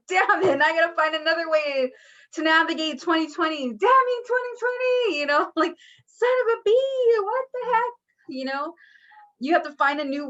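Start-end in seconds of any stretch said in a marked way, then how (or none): 0.1-3.7 frustrated. Retold or imitated. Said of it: "And you're like". 3.7-7.9 high, loud exasperated cursing; frustrated outburst. Retold or imitated. Venting at a year that keeps blocking the way, exasperated. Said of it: "And you're like".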